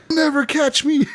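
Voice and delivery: high-pitched, gleeful taunt; mock defiance. Drunk player fleeing the law, mock defiant taunt. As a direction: crow it like a drunk making a getaway. Retold drunken escape from police.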